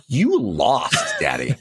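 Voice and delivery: hint of a taunting preschooler; retold four-year-old. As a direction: tease Dad like a victorious little kid. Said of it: "My four-year-old".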